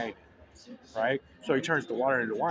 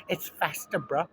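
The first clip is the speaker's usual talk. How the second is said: higher mock kid voice; the son piping up; 4 semitones higher, slower than usual. Son in the ad talking up to mom. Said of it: "her son looks up at her and goes".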